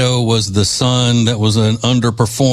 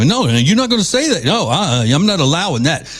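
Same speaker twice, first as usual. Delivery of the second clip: imitating angry host; 5 semitones higher than usual. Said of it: "get up in there".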